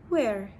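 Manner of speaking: "Where" with a falling tune; short question "Where", pitch falling; falling wh-question intonation. Shown as a demonstration. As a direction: let "Where" drop at the end. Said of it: "a falling intonation for w questions".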